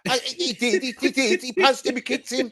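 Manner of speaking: high-pitched, insistent rebuttal; heated protest. Real, not acted. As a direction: rattle off the list in protest. Hotly contradicting co-host about striking.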